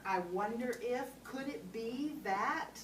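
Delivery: slow, gently questioning I wonder if; tentative question. Shown as a demonstration. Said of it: "say it with a question mark".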